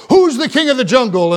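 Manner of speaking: lion's challenge, lightly hammed up; storyteller's mild lion yell; mock yelled roar. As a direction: imitate a roaring lion without full volume. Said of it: "He yelled out, roared out".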